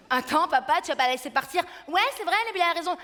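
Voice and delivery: put-on older sister egging dad on; bossy sisters. Sœurs interviennent. (grande sœur qui en rajoute)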